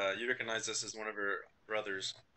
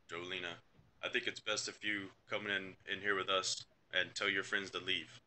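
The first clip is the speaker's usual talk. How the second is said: dad. Acted. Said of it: "the dad, and I'm like".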